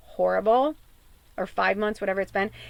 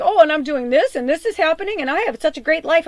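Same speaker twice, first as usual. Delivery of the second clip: higher, mocking imitation of a boaster; mock bragging; 5 semitones higher, 5 dB louder than usual. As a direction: parody someone gushing about their own life. Mocking her partner's happy bragging.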